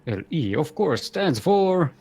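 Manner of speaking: slow, drawn-out ring announcer. Acted. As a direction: introduce the players like a boxing MC. Player introductions.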